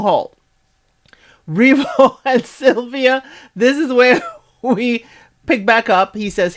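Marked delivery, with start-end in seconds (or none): 1.5-5.0 high, slowed words broken by laughter; talking through a real laugh. Real, not acted. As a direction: laugh through the recap, losing the thread. Laughs while resuming the recap.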